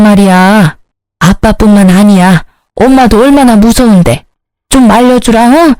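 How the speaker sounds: acted anxious begging; desperate pleading. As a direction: beg for protection, drawing out the last appeal. Sister-in-law begs for protection.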